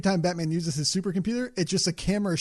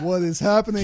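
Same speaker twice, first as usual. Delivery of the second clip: baffled Bruce; 5 dB louder than usual. Retold or imitated. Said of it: "Bruce is just like".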